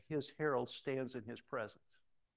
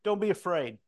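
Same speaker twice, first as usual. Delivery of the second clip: angel's command; 4 semitones higher, 6 dB louder than usual. Acted. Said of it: "my favorite angel line".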